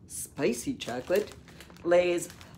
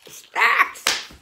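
excited; 12 semitones higher, 6 dB louder than usual. Real, not acted. Excited at the chip name.

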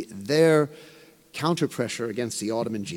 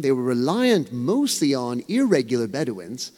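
irregular leaned on a little harder; stress on irregular. Shown as a demonstration. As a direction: give the word irregular a light extra push. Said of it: "and I emphasize the word irregular".

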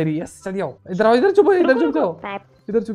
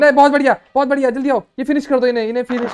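excited cheer; 4 semitones higher, 4 dB louder, faster than usual. Real, not acted. Celebrating teammate's kill.

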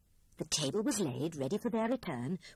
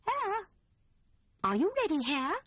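high, louder call up the house; 11 semitones higher, 4 dB louder than usual. A narrator's reading. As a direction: call out to Hare. Grey Rabbit calling out for Hare.

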